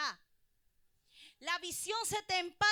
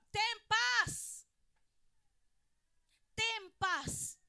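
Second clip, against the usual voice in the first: reassuring; 6 semitones higher, 4 dB louder, much slower than usual. Retold or imitated. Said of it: "Cuando le dijeron".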